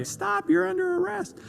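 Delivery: a nervous rookie squeaking out an arrest; squeaky high-pitched command. Retold or imitated. Rookie cop's first arrest, voice jumping high. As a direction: voice cracking way up high. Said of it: "my voice just went really high".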